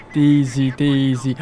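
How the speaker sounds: "Daisy" said as "Deezy"; mocking advert voice. Imitating girls in an advert, mock "Deezy" for "Daisy". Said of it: "I mock their voice every time".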